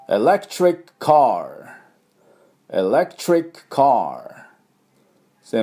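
エレクトリックカー said slowly as English "electric car"; drawn-out エレクトリックカー for students to repeat; slow model for repetition. Shown as a demonstration. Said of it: "私の後ついていきましょう". (ゆっくりお手本の発音)

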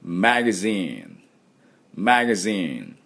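slow "マガジン" with buzzed z and long zeen; "マガジン" as English magazine, ae vowel. Shown as a demonstration. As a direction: stretch the last syllable of "マガジン". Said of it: "後について発音どうぞ".

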